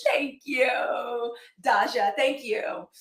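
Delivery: a real cry of thanks to a viewer; excited thanks. Real, not acted. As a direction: call out your thanks with real joy.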